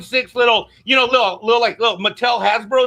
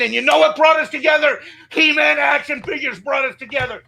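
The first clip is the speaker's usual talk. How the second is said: heated, raised-pitch rant at the showrunner; real angry rant. Real, not acted. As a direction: tell Kevin off, fuming and raw. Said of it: "Let me tell you how upset I am".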